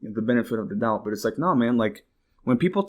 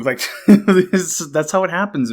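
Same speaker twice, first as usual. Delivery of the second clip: laughing disbelief; 6 semitones higher, 7 dB louder, slower than usual. Real, not acted.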